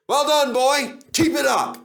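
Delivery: loud, high calls of encouragement; encouraging cheer. A narrator's reading. Driver urging Duncan up the hill, cheering. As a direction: cheer the engine on. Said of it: "encouraged his driver".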